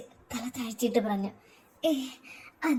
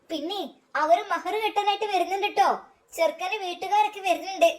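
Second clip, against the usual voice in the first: higher, announcing across the house; a light call to everyone inside; 5 semitones higher than usual. Acted. Someone announcing the groom's family arriving, called out. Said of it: "ആരോ വിളിച്ചു പറഞ്ഞു".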